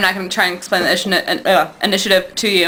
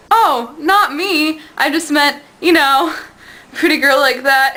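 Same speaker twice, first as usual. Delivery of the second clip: higher-pitched, drawn-out "oh"; flustered backtracking; 5 semitones higher, slower than usual. Retold or imitated. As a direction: hastily correct yourself, lightly acted. Retold flustered backtracking by Willow.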